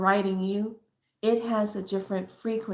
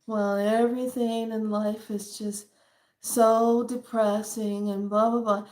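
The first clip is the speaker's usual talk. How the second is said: mock depressed. Shown as a demonstration. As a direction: demonstrate a downer dragging out the words. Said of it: "if I was to talk like ... so depressing".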